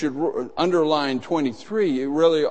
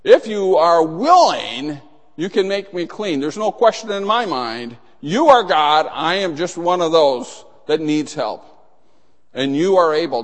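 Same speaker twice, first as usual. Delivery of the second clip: confident faith; 4 dB louder than usual. Acted. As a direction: declare it with certainty. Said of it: "approaching Jesus the right way".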